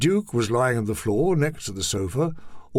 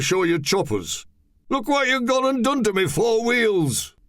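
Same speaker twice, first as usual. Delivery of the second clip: tall man's voice; 6 semitones higher than usual. Acted. Held voice of the tall man.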